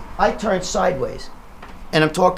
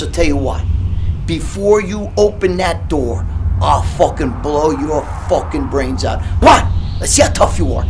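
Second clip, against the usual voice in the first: menacing threat; 5 dB louder than usual. Retold or imitated. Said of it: "He goes".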